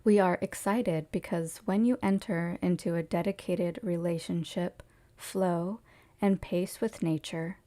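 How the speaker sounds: measured, formal reading aloud; lightly formal recital in even, phrased sentences; channeled message reading. Acted. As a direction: read it out as a message from spirit guides.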